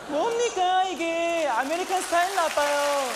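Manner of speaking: high, strained mock-outraged put-on accent; Blanca catchphrase. Husband complaining about American-style breakfast, mock outrage. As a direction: protest like a wronged foreign worker.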